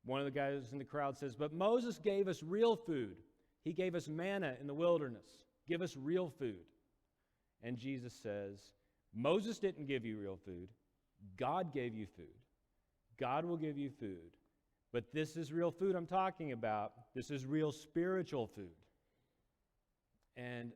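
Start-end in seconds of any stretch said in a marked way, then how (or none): 1.3-6.7 high, loud, slow protest; protesting crowd member. Retold or imitated. Man in crowd argues with Jesus, loud high protest. 9.1-18.7 louder, slow insisting; insistent Jesus. Retold or imitated. Jesus answering the crowd, louder and insistent.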